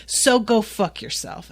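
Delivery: retold furious rant at a jealous boyfriend; angry rant. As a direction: tear into him with biting sarcasm. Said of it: "rightfully is like".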